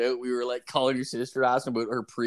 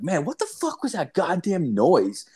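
higher-pitched mock exasperation; retold baffled demand; 7 semitones higher than usual. Asking Kurt about the squeaking, retold baffled demand. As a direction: ask it in raised, incredulous voice.

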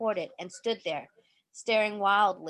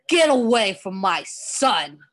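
shout; 7 dB louder than usual. A narrator's reading. Father confronts monster with gun.

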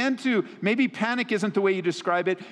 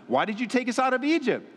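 raised, mildly accusing voice; not-nice questioning; 5 semitones higher than usual. Acted. Preacher voicing Israelites blaming Moses, mildly accusing. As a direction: lightly mimic a complainer, pitched up. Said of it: "They're not asking it in a nice way".

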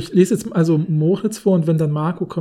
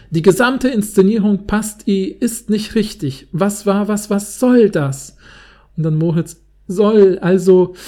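loud, high, slow outrage; loud indignant questioning; indignant director; 3 semitones higher, 5 dB louder, slower than usual. Pretend. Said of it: "in der Art vorzulesen".

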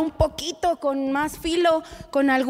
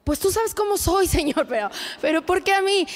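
whiny complaint; 4 semitones higher than usual. Retold or imitated. Mock whiny prayer to God.

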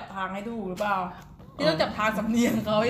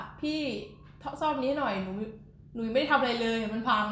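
pleading customer; 2 semitones higher than usual. Retold or imitated. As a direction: act out an innocent user begging for a repair. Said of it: "เหมือนที่หนูบอกพี่ว่า".

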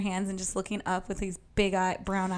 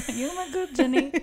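laughing, badly faked Southern accent; 4 semitones higher than usual. Copying a friend's Forrest Gump quote, playful Southern accent. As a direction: echo the movie line in a mock Southern accent. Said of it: "I like the way you do that accent".

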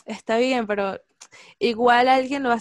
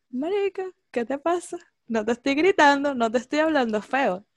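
high, exasperated denial; drama queen; 4 semitones higher than usual. Retold or imitated. Mocking a drama queen who denies shouting, pitched up. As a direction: play the touchy drama queen. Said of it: "Drama queen".

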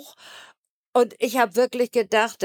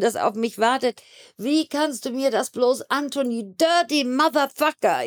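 higher, pleading yell at the betrayer; retold screaming; 4 semitones higher than usual. Woman in police car screaming at her betrayer, desperate yell. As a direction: cry out in anguish, voice raised high. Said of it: "einfach nur an zu schreien".

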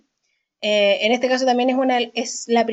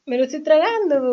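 holding in a sneeze; 4 semitones higher than usual. Real, not acted. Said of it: "¿pero por qué te lo tragaste".

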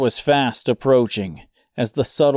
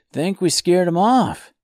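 put-on proud young boy, pitched up; boyish voice; 7 semitones higher, 3 dB louder than usual. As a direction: sound like a proud kid. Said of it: "pride filling his boyish voice".

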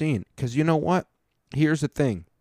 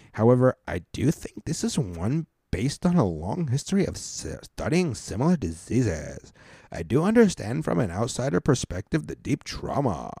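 super Karen ally; 2 semitones higher than usual. Retold or imitated. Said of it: "super Karen white girl, ally mode".

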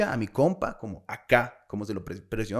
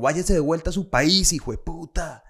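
lightly hammed-up cartoon heckler, higher pitch; raised-pitch mock outrage; cartoonish angry local; 4 semitones higher than usual. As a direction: imitate an irate local like a cartoon. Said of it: "Así como cartoon".

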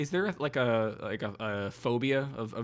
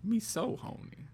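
high echoed song quote; 9 semitones higher, 5 dB quieter, slower than usual. Retold or imitated. Echoing song line higher.

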